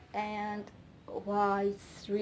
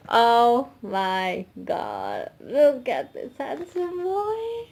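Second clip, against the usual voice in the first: gushing; 6 dB louder, slower than usual. Real, not acted. Fan gushes over idol photo.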